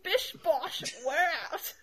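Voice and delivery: badly faked English accent; butchered British catchphrase. Imitating the co-host's sign-off, clumsy English accent. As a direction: attempt the British sign-off and botch it. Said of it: "you really butchered that one".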